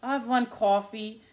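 imitating a customer's Jersey "cawfee"; retold Jersey-accented order. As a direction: order with a rounded Jersey vowel on "coffee". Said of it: "the guy was like".

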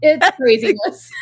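laughing through the words; real giggle breaking through the line. Real, not acted. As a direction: crack up as you land the punchline. Punchline of her own lion story.

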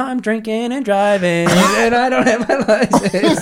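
high, slow, laughing through the words; high slow laughing confession; laughing disbelief. Retold or imitated. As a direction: giggle out the confession. Self-quote, drunk driving with teacher.

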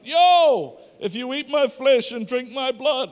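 a loud, high, laid-back "yo" from Jesus; casual Jesus voice. Retold or imitated. Preacher playing Jesus as a casual bloke, loud and high.

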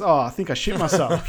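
laughing quote. Retold or imitated. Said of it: "And he goes".

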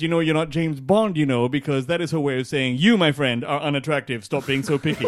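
imitating an Asian mother's measured put-down; mother's Asian accent. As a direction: lay down the verdict like an Asian mother. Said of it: "she talks like this".

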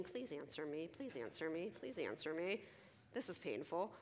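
hushed, repeated plea to oneself; quiet, pleading undertone; inner pleading. Retold or imitated. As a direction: drop soft, like an anxious private thought. Silent inner pleading while waiting.

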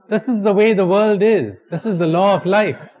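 high, loud crocodile pronouncement; declaring crocodile. Acted. Crocodile states its creed to boy.

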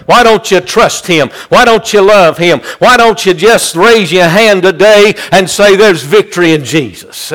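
rhythmic, driving sermon delivery; fervent preaching. Real, not acted. Preacher urging the congregation that he knows, fervent preaching. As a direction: preach it with insistent repeated cadence.

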